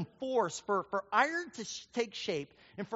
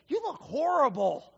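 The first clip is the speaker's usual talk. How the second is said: louder, punchier take on the verdict; emphatic dentist; 5 semitones higher, 5 dB louder than usual. Retold or imitated. Dentist repeating his verdict to the preacher, louder and emphatic. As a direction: hammer home how bad he looks. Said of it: "He's like".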